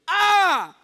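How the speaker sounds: high, loud joyful cry of a mother; mother's overjoyed high-pitched exclamation; excited mother. Retold or imitated. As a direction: shriek with delight at the news. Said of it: "she was so excited".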